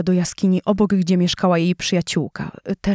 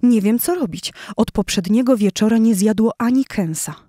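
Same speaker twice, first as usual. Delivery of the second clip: fretful lioness; 3 semitones higher than usual. Acted. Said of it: "Zaczęła płakać i dygotać ze zdenerwowania".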